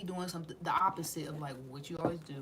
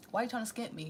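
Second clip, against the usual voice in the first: calmer repeat; 3 semitones higher, faster than usual. Retold or imitated. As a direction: press the point again, settled. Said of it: "and you like".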